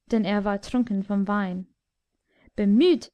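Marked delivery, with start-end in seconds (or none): 2.5-3.1 angry shout. Acted. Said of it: "schrie der Tyrann wütend".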